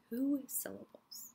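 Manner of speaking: soft whisper to the class. Shown as a demonstration. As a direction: hush it like a secret. Teacher stresses the count.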